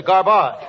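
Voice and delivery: "garbage" rhymed with "garage"; mispronounced garbage. Acted. Comedian misapplying his partner's lesson, "garbage" said as "gar-BAHZH". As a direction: end "garbage" on a fancy "ahzh", as "gar-BAHZH". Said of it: "or garage".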